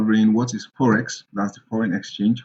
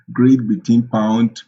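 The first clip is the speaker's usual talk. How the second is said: laughing; 4 dB louder, slower than usual. Real, not acted. Laughs at forgetting GBP.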